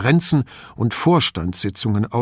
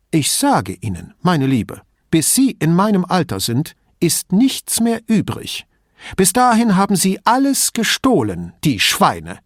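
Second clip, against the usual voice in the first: put-on higher-pitched voice of a griping old lady; old lady, indignant and chatty; old signora; 7 semitones higher, 3 dB louder than usual. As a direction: play the suspicious old woman complaining about thieves.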